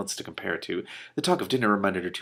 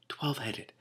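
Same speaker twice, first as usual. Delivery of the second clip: higher amazed repeat of "twelve-headed"; 6 semitones higher, 8 dB quieter, slower than usual. Real, not acted.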